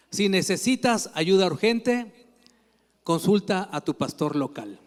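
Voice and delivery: lightly voiced recorded phone menu, slowing on the options; answering machine voice. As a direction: read it like a slightly pompous automated menu. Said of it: "una contestadora que te dice".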